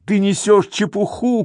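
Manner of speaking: high narrated shout; angry shout. A narrator's reading. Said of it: "кричит он".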